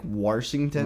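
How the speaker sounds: "Warshington" with an added r before the sh. Retold or imitated. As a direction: say Washington as "Warshington". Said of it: "call Washington, like, Warshington".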